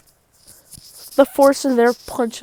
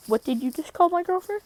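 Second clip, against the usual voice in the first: indignant; 7 semitones higher, 3 dB quieter, faster than usual. Retold or imitated. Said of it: "he's like".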